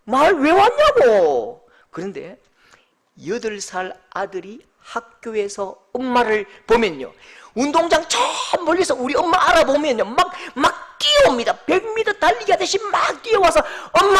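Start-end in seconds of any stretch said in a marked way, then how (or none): 0.0-1.7 put-on grumpy teen. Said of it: "별로 안 반가워요". 13.9-14.2 joyful call. Retold or imitated. Child spots mother, runs.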